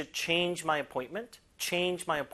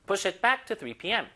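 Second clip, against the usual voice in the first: slow model reading; 3 semitones higher, much slower than usual. Shown as a demonstration. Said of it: "model sentence".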